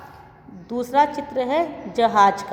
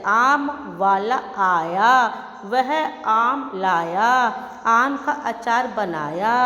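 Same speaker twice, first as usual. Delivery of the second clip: slow sing-song reading of a rhyme, each line rising at the end; children's rhyme recitation; slower than usual. Acted. Teacher reciting the lesson rhyme to young pupils, slow sing-song. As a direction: read it like a nursery rhyme for little pupils, slowly and evenly.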